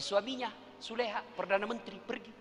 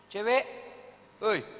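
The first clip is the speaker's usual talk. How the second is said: catcall; 4 semitones higher, slower than usual. Acted. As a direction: call out teasingly to a passing girl. Catcalling a girl. (siulan menggoda cewek, lebih keras)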